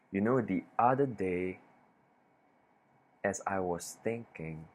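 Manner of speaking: long pause after "day", "thinking", "is" and "certain"; deliberate silences. Shown as a demonstration. Coach showing comfort with silence, long deliberate pauses. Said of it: "Having that extra silence".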